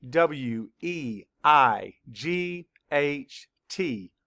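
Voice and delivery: "E I G H T Y" spelled slowly, letter by letter; slow spelling. Shown as a demonstration. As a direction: spell each letter slowly for young learners. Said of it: "Spell it".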